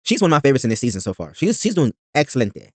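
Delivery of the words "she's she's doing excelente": bad Spanish accent on "excelente"; "excelente" said as a Spanish word, slowly. Shown as a demonstration. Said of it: "I think I'm saying it wrong".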